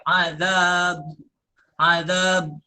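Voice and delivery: azab with lips pursed on the final letter; ismam, rounded lips. Shown as a demonstration. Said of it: "huruf yang akhir itu dimuncungkan". (azab dengan bibir dimuncungkan)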